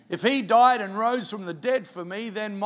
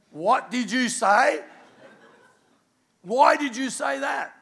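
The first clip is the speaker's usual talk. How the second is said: alarmed outcry; 5 semitones higher, 4 dB louder, slower than usual. Retold or imitated. Canadian reacts to Exorcist question.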